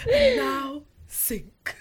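slow, hushed nature documentary narrator; lightly voiced wildlife narrator, very slow; David Attenborough. Shown as a demonstration. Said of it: "You sound a bit like, um, David Attenborough".

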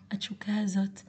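soft breathy whisper echoing the phrase; whispered repeat. Real, not acted. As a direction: whisper the words back, barely voiced. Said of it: "התשוקה הזאת ליצור".

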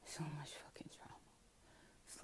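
whispered grief; pained whisper. Real, not acted. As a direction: say it almost to yourself, drained. Repeats, drops to whisper.

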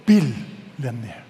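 billionaire stretched slow and low; slow drawn out. Shown as a demonstration. Pastor modelling billionaire for the congregation, slow. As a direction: draw out billionaire for the crowd to repeat. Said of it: "Everybody say the word".

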